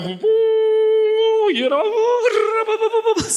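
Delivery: imitated trumpet. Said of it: "agarraban con una corneta".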